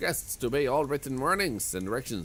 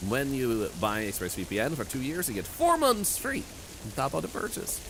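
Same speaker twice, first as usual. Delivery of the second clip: upbeat sponsor pitch; ad read; 3 semitones higher than usual. Acted. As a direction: sell it like an ad.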